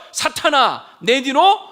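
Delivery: loud, commanding quoted rebuke; stern rebuke. Acted. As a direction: thunder it out, dragging the final command. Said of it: "라고 꾸짖으시죠". (크게 호통치며 꾸짖는 인용)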